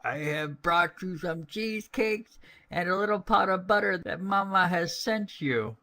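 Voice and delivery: a wolf trying to sound sweet; wolf's careful little-girl imitation; wolf faking a little girl. A narrator's reading. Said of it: "speaking like a little girl as well as he could".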